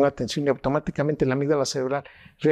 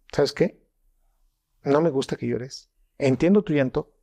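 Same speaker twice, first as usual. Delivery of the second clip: measured, amiable reassurance with pauses; kind prosody. Acted. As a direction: keep it kind while disagreeing. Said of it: "Voy a ser amable con mi prosodio".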